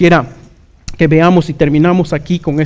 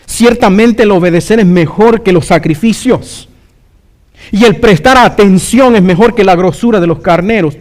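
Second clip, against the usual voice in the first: raised, emphatic preacher's voice; forceful preaching; 4 semitones higher, 3 dB louder than usual. Acted. Preacher urging the congregation to obey God, forceful preaching. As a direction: drive the command home.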